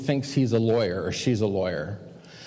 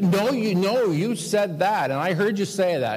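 mock quarrel, pitched higher; arguing back; 6 semitones higher than usual. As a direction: imitate someone insisting in an argument. Acted quarrel over a misunderstanding.

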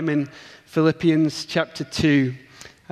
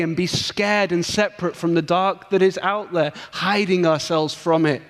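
preaching; 3 semitones higher than usual. Acted. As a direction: press the image home like a pulpit climax. Preaching the main point.

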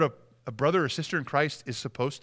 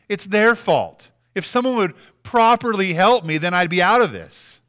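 whiny complaint; 4 semitones higher, 6 dB louder than usual. Retold or imitated. Preacher voicing a complaining member.

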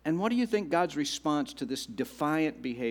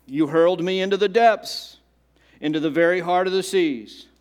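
louder, forceful Bible reading; dramatic scripture reading; 3 semitones higher, 6 dB louder than usual. Acted. Jonah's prayer from the depths, read out dramatically. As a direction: declaim it like a desperate prayer.

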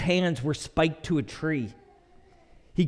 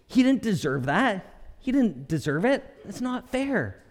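lightly voiced child's complaint; mildly indignant kid imitation; imitating daughter's protest; 4 semitones higher than usual. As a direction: whine a mock objection, pitched up at the end. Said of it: "in the words of my daughter".

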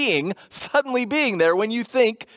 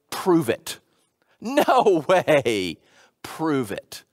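skeptical challenge; 5 semitones lower, much slower than usual. Retold or imitated. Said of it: "Jeff's paraphrase version".

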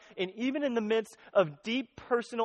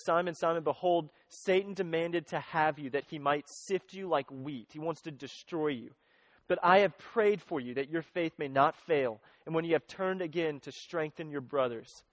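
gentle scripture quote; 4 semitones lower, 3 dB quieter than usual. Retold or imitated. Jesus quoted tenderly to Peter.

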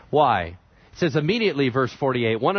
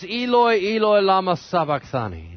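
raised, higher quoted cry; 6 semitones higher than usual. Retold or imitated. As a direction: call out in a moderately raised voice. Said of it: "cried out in a loud voice".

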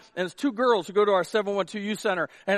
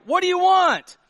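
high, loud demand; calling them out; 10 semitones higher, 6 dB louder than usual. Acted. Jesus to those following him, shouted demand. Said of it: "he calls them out".

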